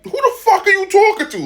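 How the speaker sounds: high, laughing disbelief; laughing outrage at the teacher's insult; outraged. Retold or imitated. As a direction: yelp it, half laughing, half outraged.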